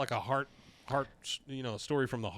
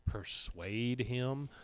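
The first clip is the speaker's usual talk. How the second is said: Cindy; 3 semitones lower, 9 dB quieter than usual. Acted. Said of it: "Cindy says".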